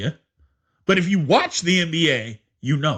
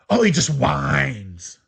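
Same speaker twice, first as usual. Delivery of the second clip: imitating mom; 4 semitones lower, much slower than usual. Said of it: "my mom".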